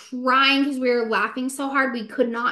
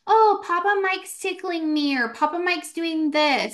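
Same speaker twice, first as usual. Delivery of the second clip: lightly voiced nephew, pitched higher; a higher-pitched hint of an excited little kid reporting in; imitating young nephew; 6 semitones higher than usual. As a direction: quote a child, lightly raised in pitch. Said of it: "my nephew will be like".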